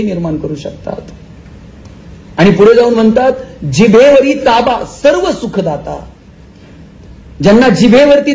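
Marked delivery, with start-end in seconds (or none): 3.6-6.1 verse quotation. Acted. Quoting verse slowly.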